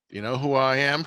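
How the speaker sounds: lightly acted snooty socialite; mock snooty indignation. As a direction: say it with a touch of haughty self-importance. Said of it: "very snooty, like".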